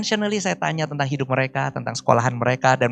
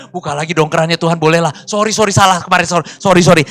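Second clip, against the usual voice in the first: pleading apology; 7 dB louder, faster than usual. Retold or imitated. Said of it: "Sampai berlutut nangis-nangis".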